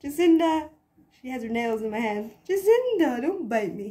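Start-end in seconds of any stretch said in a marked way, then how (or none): 0.0-0.7 higher, louder yelp of her name; startled laughing call. Real, not acted. Calling out the clawing cat. 2.5-3.9 much higher, louder rebuke; sharp call. Real, not acted. Scolding the clawing cat.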